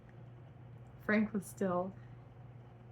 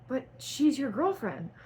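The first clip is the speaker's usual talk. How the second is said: yelling; 6 semitones higher, 5 dB louder than usual. A narrator's reading. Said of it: "Frank yelled".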